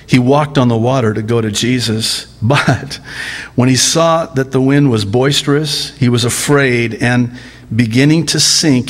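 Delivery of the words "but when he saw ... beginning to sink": normal talking voice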